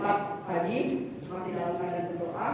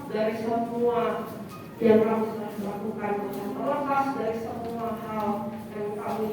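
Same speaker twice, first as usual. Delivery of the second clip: prayer; 3 semitones higher than usual. Acted. Opening prayer.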